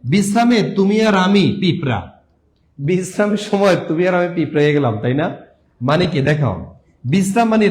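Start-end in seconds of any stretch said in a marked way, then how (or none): 0.0-4.9 "বিশ্রামে তুমি আর আমি পিঁপড়া" spelled out as a rhyme; mnemonic phrase. Shown as a demonstration. Teacher reciting a spelling rhyme to students. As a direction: recite the memory rhyme clearly. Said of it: "কিভাবে মনে রাখবেন".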